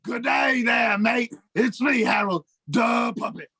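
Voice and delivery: a light attempt at an Australian accent; hesitant Australian accent for a laugh. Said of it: "I wanted to try to do an Australian accent".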